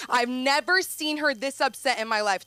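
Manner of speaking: mock dad. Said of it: "he said".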